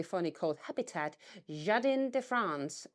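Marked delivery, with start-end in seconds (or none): 1.5-2.9 light French accent on Jardin de France. Shown as a demonstration. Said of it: "excuse my French accent".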